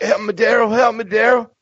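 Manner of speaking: high-pitched mock plea; Eugene impression. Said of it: "He's like".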